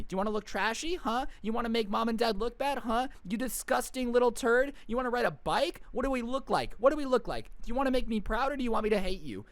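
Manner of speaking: rapid-fire, hammed-up parental scolding; mock berating parent. Karen scolding her kid over a bike, mock furious.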